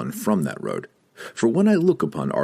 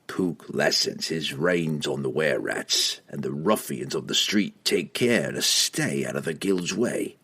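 cold assassin voice; 3 semitones lower, 4 dB quieter than usual. Acted. Entreri reasoning.

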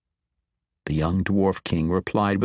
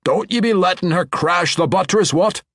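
higher, louder dwarf voice calling out; gruff dwarf warning; 10 semitones higher, 5 dB louder than usual. A narrator's reading. Dwarf foreman warning his bridge crew, raised dwarf voice. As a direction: warn the crew sharply in a dwarf brogue.

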